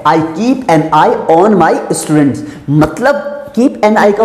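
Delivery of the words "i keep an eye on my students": very slow, word by word dictation. Shown as a demonstration. Teacher reading the example sentence slowly to students. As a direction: spell out each word slowly for the class. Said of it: "example है".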